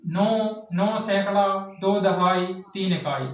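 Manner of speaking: counter-example read in separate chunks; wrong reading demo. Shown as a demonstration. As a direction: place by place, with breaks between "नौ सैकड़ा", "दो दहाई", "तीन इकाई". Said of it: "ये ऐसे नहीं पढ़ते हैं कि".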